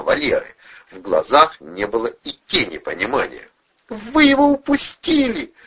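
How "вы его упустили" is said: high, slow, desperate woman's cry; despairing scream. A narrator's reading. Blonde realizing they let him escape, despairing cry. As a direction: wail it in despair. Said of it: "В голосе блондинки проступило отчаяние".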